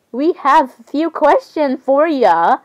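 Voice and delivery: put-on slow, slightly childlike delivery; a hint of a little kid asking. Reading the character's line to the other characters, lightly kid-voiced. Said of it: "why am I talking like a kid right now".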